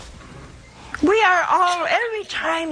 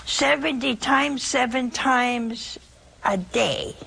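seventy times seven said slowly, each word weighed; the Lord's answer spelled out slowly for the flock; slow emphatic; slower than usual. Retold or imitated. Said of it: "No, he said".

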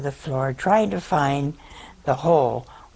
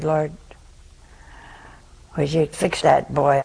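very quickly. Retold or imitated. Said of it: "I said, very quickly".

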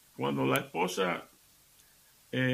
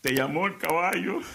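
wry, a little louder, lifting on "caballo"; sly punchline; 4 semitones higher, 3 dB louder than usual. Acted. Wife tells her bleeding husband the horse called, sly and wry. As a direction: land it with a knowing wink.

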